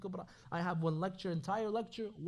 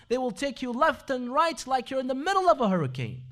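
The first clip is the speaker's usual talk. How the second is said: louder, driving the hurricane image home; rising preaching; 3 semitones higher, 6 dB louder than usual. Real, not acted. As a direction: build it like a storm hitting the ship. Preacher builds the storm image.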